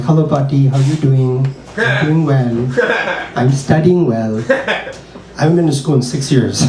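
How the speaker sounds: put-on light Indian accent, slowing down; polite grandchild's mock Indian accent. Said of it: "have to put on a little bit of an accent".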